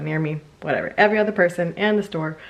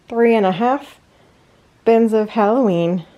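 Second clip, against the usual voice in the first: breathless after lifting; a little winded from hauling boxes; out of breath; 3 semitones higher than usual. Real, not acted. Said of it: "I'm still out of breath from moving all this stuff".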